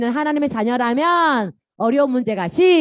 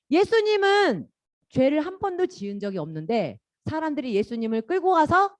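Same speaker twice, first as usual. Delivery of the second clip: normal talking voice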